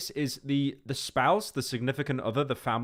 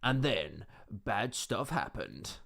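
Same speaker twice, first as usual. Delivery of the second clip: slow, dramatic trailer narration; film trailer voice; 3 semitones lower, 7 dB quieter, slower than usual. Retold or imitated. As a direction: read it like a movie trailer voice-over. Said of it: "she's talking like a film trailer".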